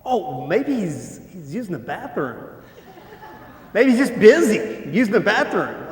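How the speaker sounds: a light mocking taunt. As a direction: tease them like a smug heckler. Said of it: "he's making fun of them".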